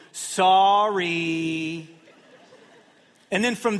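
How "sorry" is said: drawn-out grudging sorry. Retold or imitated. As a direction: stretch "Sorry" like a kid forced to say it. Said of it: "And they go".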